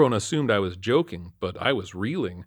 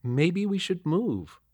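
lightly voiced wife, slow and higher; a slow, higher-pitched wife figure; wife's voice; 9 semitones higher, slower than usual. A narrator's reading. Wife gently urging husband to move, lightly higher voice.

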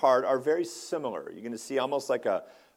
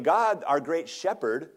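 higher-pitched, earnest cry to God; 5 semitones higher, 3 dB louder than usual. Retold or imitated. Psalmist crying out to God over the lost shepherd, crying out. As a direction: cry out in lament, pitch lifted. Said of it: "he's really crying out".

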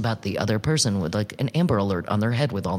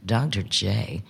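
affectionate; 3 semitones lower than usual. Shown as a demonstration. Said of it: "the way you say somebody's name tells you how you feel about them".

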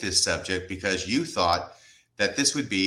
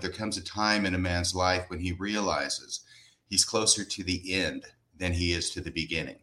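reflective; 4 semitones lower, 3 dB quieter than usual. Retold or imitated. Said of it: "says in a reflective moment".

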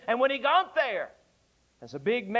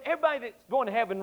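normal talking voice

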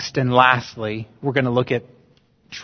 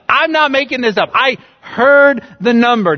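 much higher, fast, indignant protest; John protesting to his doubters, much higher and indignant; insistent John; 10 semitones higher, 6 dB louder than usual. Retold or imitated. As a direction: defend yourself against the doubters. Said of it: "John's like".

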